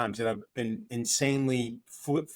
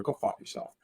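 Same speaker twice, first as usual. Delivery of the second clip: breathy, voiceless half-joking aside; mock whisper; 6 dB quieter than usual. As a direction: hiss the insult under your breath like a playful jab. Joking rant at fellow tattooer.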